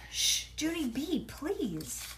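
exasperated shushing plea; pleading, drawn-out hush. A narrator's reading. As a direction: shush a noisy child. Dad hushing the child.

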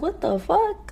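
high stunned whisper-soft what the fuck; a startled, hushed reaction; shocked disbelief. Retold or imitated. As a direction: gasp it out in disbelief. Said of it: "And I'm just like".

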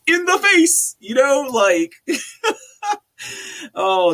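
high, slow, cracking into laughter; laughing at how absurd it is. Real, not acted. Ranting then breaks into laughter.

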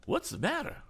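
put-on high, fussy old gentleman voice; flustered, eager old man; eccentric old gentleman. A narrator's reading. Mister Damon voiced.

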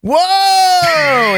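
high, loud amazed whoa; imitating surprise. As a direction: gasp it out at how tall he is. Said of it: "he just goes".

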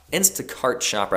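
Instacart shopper with a dropped Boston r, "Instacart" as Instacaht; a slipped-in Boston accent; casual accidental Boston accent. Real, not acted. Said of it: "I don't know why I said that with Boston accent".

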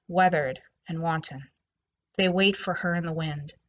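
slow, even recitation with lingering images; calm, solemn gothic poem read. Acted. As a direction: let each dark image settle. Reads her poem aloud.

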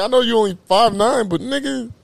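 high, loud pleading; excited yell. Retold or imitated. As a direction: egg him on to dunk. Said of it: "I was like".

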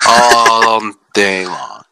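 slow teasing echo; drawn-out mock sultry. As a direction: stretch it out suggestively. Echoing innuendo, drawn out.

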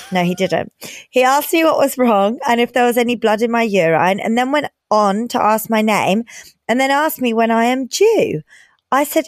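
lively letter reading; reading aloud. Acted. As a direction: read it like a story.

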